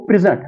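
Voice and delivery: प्रेजेंट said pri-ZENT, second syllable stressed; weak first syllable, strong ZENT in प्रेजेंट; verb stress. Shown as a demonstration. Teacher correcting the verb, stress on second syllable. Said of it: "जब verb इसको इस्तेमाल करना हो".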